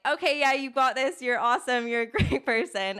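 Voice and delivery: high, bubbly encouragement with a laugh; self pep talk. Retold or imitated. Coach retelling her pep talk to herself, bubbly and encouraging.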